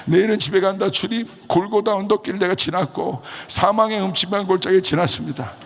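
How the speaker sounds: high, elated declaration; retold joyful relief. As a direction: proclaim the ordeal is over, re-enacted. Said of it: "드디어 기쁜 거예요". (드디어 기뻐서 높게 외치는 재연)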